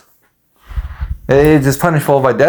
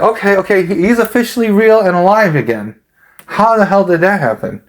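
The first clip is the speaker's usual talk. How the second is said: higher-pitched imitation of amazed onlookers; mock astonishment; 6 semitones higher than usual. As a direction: act out baffled disbelief, pitched up. Voicing astonished onlookers at a resurrection.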